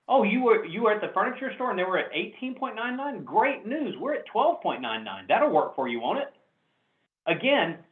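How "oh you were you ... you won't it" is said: enthusiastic. Shown as a demonstration. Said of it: "as enthusiastic as I possibly can be".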